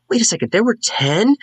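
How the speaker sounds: high, incredulous interjection; startled high-pitched character voice; Scylla. Acted. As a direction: blurt it out in a high, surprised voice. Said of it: "you hear Scylla in the background say".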